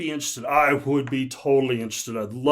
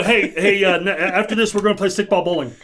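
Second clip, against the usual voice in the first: hammed-up bad Boston accent; 3 semitones higher, 5 dB louder than usual. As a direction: lay on a thick Boston accent. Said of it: "terrible Boston accent".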